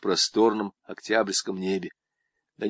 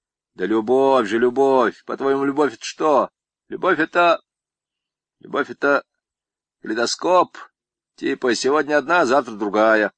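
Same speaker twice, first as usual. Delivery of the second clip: lightly voiced swaggering con, pitched up; boastful convict; 4 semitones higher, 5 dB louder than usual. Convict brags to Zamaraev about women, lightly voiced. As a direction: brag like a cocky camp inmate.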